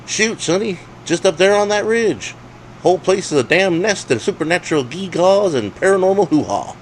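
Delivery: put-on cranky old coot. A narrator's reading. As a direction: squawk it out like a wound-up old geezer. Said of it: "foghorning his own autobiography".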